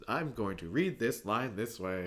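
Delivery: slow, deliberate mock bad acting; stilted line reading. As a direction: imitate an amateur reading word by word. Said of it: "somebody reads the line and they just".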